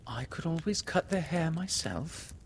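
put-on high-pitched girl's voice; young girl. A narrator's reading. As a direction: suggest it high, like a helpful girl. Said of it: "said Windy".

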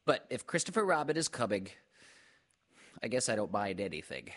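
high, quick, earnest little voice; earnest Piglet. A narrator's reading. Piglet explains the worry to Pooh, earnest. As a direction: confide it earnestly, starting high. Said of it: "said Piglet earnestly".

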